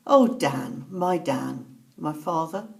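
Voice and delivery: slow-falling, heartfelt quote; retold moving recognition. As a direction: say it movingly, sinking in pitch. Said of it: "very movingly".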